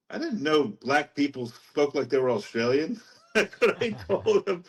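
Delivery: retold disbelief breaking into a laugh; amused retelling. Telling what he said to his friend, laughing. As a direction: let the laugh lift the pitch.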